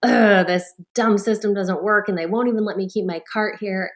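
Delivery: a grumbling, put-out complaint; grumbling to herself about the broken card system; grumpy. Retold or imitated. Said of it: "the emotion that I had was all grumpy".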